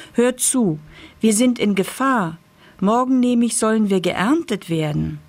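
high, eager pumpkin voice; a lightly voiced excited pumpkin.

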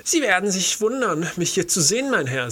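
put-on high, croaky old bookseller; strange, scratchy old voice; croaking voice. A narrator's reading. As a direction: croak it out like a peculiar old man. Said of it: "mit eigentümlicher, krächzender Stimme".

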